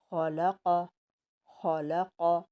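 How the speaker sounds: खलक with thick, heavy emphatic consonants; heavy letters. Shown as a demonstration. Teacher showing the class heavy letters, heavy pronunciation. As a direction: sound खलक heavy and full in the mouth. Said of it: "ये heavy पढ़ेंगे इसको".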